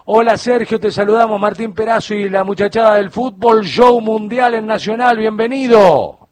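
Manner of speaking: radio show welcome. Real, not acted. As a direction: welcome the guest with big on-air projection. Radio host greets guest on air.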